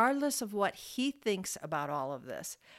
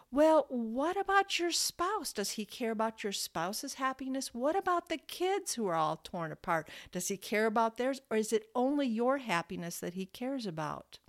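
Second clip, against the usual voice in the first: passionate; 2 semitones higher than usual. Real, not acted. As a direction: press the questions home with real conviction. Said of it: "Do I sound passionate here?".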